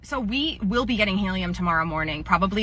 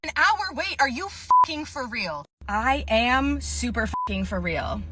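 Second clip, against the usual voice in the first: mock outraged Karen; 3 semitones higher, 3 dB quieter, slower than usual.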